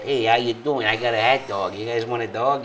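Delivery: lightly imitated up-north Chicago-area talk; a hint of a northern Illinois accent. Host imitating folks four hours north, northern accent. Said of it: "four hours north, you get that".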